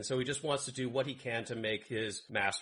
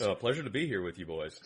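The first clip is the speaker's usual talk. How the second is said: Hargan impression; 5 semitones lower, faster than usual. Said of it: "surprise last minute guest, Hargan".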